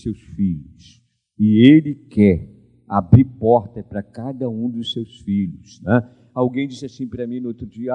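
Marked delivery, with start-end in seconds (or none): none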